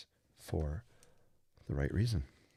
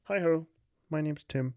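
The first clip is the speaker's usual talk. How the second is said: much higher, louder mock Tim voice; Tim impression; 8 semitones higher, 6 dB louder than usual. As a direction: pop the voice way up to play Tim. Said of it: "That's my Tim impression".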